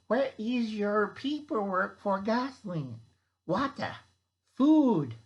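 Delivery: hammed-up bureaucrat listing demands; bad German accent. Official demanding ration paperwork, in a bad German accent. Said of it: "a really bad German impression".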